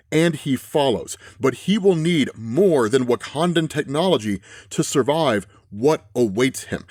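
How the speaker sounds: slow, deliberate comic narration; dramatic caption reading. Acted. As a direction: read the caption like a slow dark trailer. Reads comic captions slowly.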